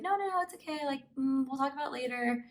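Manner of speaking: retold hushed "there, there" tone; calming him down. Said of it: "kinda, like, calmed him down".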